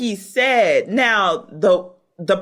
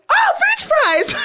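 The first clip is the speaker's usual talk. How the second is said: high, drawn-out squeal of imitation; slow, high-pitched mock thrill; mock delight. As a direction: coo over it with hammed-up excitement. Mimics her delight at food arriving.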